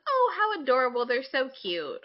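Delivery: high, cooing mock adoration; mock gushing over cute idols; gushing fangirl. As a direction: coo over them like a smitten fan.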